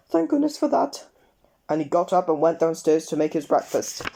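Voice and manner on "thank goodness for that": 1 relieved Mr Jelly. A narrator's reading.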